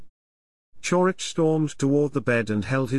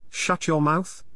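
yelling; 4 semitones higher, slower than usual. Acted. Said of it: "Chorich yelled".

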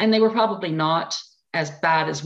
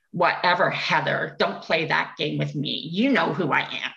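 dismissive; 2 semitones lower than usual. Retold or imitated. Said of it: "I looked at her and I went".

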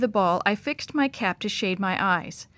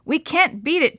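yelled; 6 semitones higher than usual. A narrator's reading. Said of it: "Dad yelled".

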